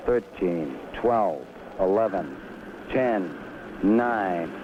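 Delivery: loudspeaker launch announcement; launch control announcer. Real, not acted.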